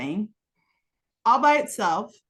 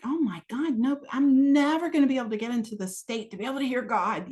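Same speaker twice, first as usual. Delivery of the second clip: mock exasperation; 3 semitones higher than usual. Acted despair at noisy neighbours.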